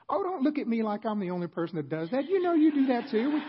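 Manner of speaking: high, loud indignant comeback; mock family member firing back; defensive retort. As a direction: snap back at the accuser.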